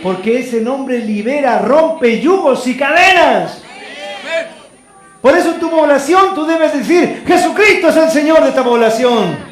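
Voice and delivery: loud, slow, rising preacher's declaration; full-force preaching. Real, not acted. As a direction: proclaim it over the whole neighbourhood.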